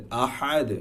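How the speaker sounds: আহাদ with a bounced "de" ending; correct qalqalah. Shown as a demonstration. Teacher giving the correct form, qalqalah on আহাদ. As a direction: release the দ of আহাদ as a light echo. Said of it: "দালের উচ্চারণটা দে এর মতো".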